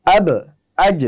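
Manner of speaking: আব and আজ with bounced final consonants; qalqala bounce. Shown as a demonstration. Teacher showing qalqala on বা and জিম. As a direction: bounce the last letter of আব and আজ. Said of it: "একটু bounce খাবে".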